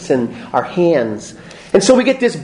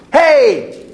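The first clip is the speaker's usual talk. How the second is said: God's voice, higher and louder, cheerful announcement; booming God; 7 semitones higher, 5 dB louder, slower than usual. Retold or imitated. Preacher voicing God creating light, higher and louder. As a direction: play God casually calling out "let there be light".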